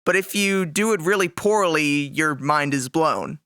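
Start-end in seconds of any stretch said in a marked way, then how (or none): 2.1-3.4 lower, flat letdown; deadpan, unimpressed. Acted. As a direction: say it like a disappointment. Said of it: "But not, not in a good way".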